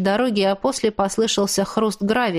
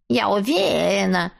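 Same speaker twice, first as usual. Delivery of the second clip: mocking squeaky imitation; squeaky mimicry. A narrator's reading. Ex-husband mimicking the woman in a squeaky voice. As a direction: parrot her in a squeak. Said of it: "пискляво повторил Виктор, передразнивая меня".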